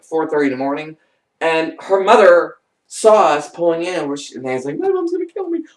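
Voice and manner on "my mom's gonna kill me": high-pitched mock worried squeal; mock dread. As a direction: imitate a friend dreading trouble, high up. Friend dreading mother's reaction, retold.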